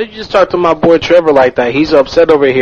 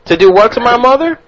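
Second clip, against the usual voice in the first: offended southerner; 7 semitones higher than usual. Acted. Second prankster voices offended southern man.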